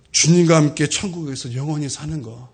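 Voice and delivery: normal talking voice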